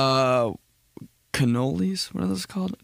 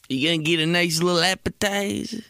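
higher mock Italian-American, endings lopped off; Italian-American dropped endings; 4 semitones higher than usual. Italian guy suggesting food, mock Italian-American accent. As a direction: do an exaggerated Italian-American, final sounds missing. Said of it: "leave off the last three letters".

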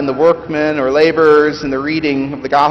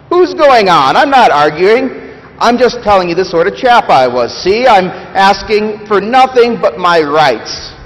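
loud, much higher, protesting; defensive ghost; 5 semitones higher, 5 dB louder than usual. Acted. Big Ghost protesting to the Spirit, loud and defensive. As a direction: bristle and insist you're not arguing.

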